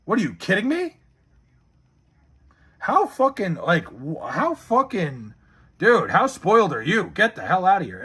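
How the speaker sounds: sputter, dragging out "how fucking"; incredulous outrage. Real, not acted. Streamer to a spoiled fan, incredulous outrage. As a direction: pitch jumping in disbelief. Scolds a chatter's spoiled complaint.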